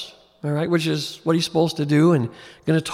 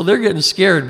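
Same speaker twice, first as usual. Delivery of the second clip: louder, punched contrast; 4 semitones higher, 6 dB louder than usual. Shown as a demonstration. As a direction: push it up to set against his anger. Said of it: "but he's getting mad".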